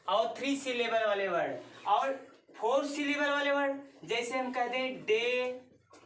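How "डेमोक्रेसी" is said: डेमोक्रेसी in four pieces with long gaps, डे, मो, क्रे, सी; syllables split apart. Shown as a demonstration. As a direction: dole out डेमोक्रेसी one syllable at a time. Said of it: "सब में space मिल रहा है बोलने से ना".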